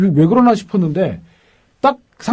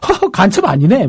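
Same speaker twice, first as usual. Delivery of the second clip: imitated hearty chuckle into the words; mock laugh, then a light remark; laughing aloud; 2 semitones higher than usual. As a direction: mimic someone scoffing with a laugh. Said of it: "웃으면서 큰 소리로".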